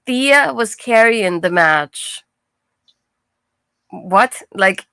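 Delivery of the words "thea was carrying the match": slow, every word weighted, Thea hit hardest; emphatic. Real, not acted. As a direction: spell it out slowly for emphasis. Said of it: "I can tell you right now".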